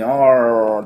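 "オー" drawn out as in a yawn; tongue dropped back for a long, r-coloured "オー". Shown as a demonstration. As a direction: demonstrate "オー" like the start of a yawn. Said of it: "オーって後ろに舌が下がりますよね".

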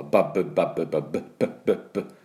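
バッブ with a clear popped b; b sound drill. Shown as a demonstration. Teacher drilling バッブ for students. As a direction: pop the b of バッブ on each go. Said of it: "この音がポイントです".

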